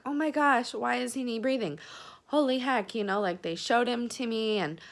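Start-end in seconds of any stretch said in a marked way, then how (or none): 0.1-2.9 higher-pitched alarmed exclamation; mildly panicked, as if reliving the moment; retelling a new mother's alarm; retold panic. Retelling her panic at birth.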